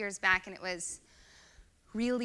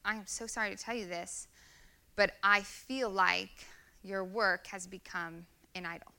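gently; 4 dB quieter than usual. Retold or imitated. Wife telling husband his work became an idol, gentle. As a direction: break hard news kindly. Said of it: "And I said gently".

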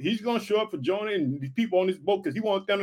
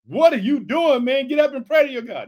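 raised, higher scolding in retelling; acted scolding; 4 semitones higher, 5 dB louder than usual. Preacher playing captain rousing Jonah, loud scolding. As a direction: play an exasperated wake-up order.

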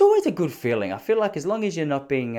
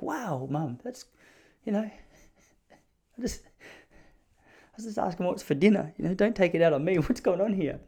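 high, wounded whine with laughs; mock hurt son; 5 semitones higher, 4 dB quieter than usual. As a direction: play the hurt kid. His hurt reply to mum.

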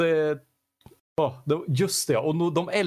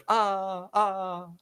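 mock Ah, ah in an odd voice; hammed-up imitation of a cheesy cry; mock yell; 4 semitones higher than usual. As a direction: parody the hero's yell. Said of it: "då så var det hela tiden".

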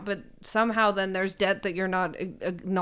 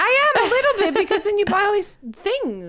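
judgy; 12 semitones higher, 6 dB louder than usual. Real, not acted. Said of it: "Okay, Judgy Judy".

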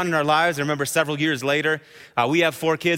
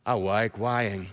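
lower, softer, slow, lightly voiced toddler; little boy's answer; 8 semitones lower, 6 dB quieter, slower than usual. Toddler calmly admitting to his dad, soft slow child voice. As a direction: say it slowly and softly like a small child. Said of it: "And you know what he said to me?".

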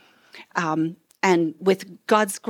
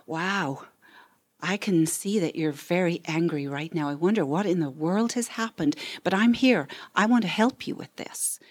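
comforting parent demo. Shown as a demonstration. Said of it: "It might sound like".

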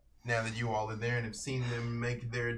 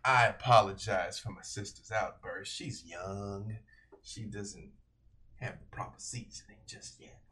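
lightly voiced brother; 4 semitones lower than usual. The brother apologizes to the host for his young sister, low and smooth. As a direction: apologize smoothly for her, dropping away.

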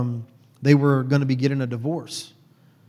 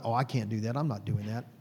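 much softer, lower refusal; mother refusing, softly and lower; mom's quiet refusal; 4 semitones lower, 8 dB quieter than usual. Retold or imitated. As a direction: shrink back like a reluctant mother. Mom refusing Baptist church.

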